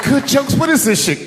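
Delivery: high-pitched incredulous wife; mock indignation. Wife reading husband's joke book, mock indignant. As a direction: throw it back high, as if disgusted. Wife's indignant retort about jokes.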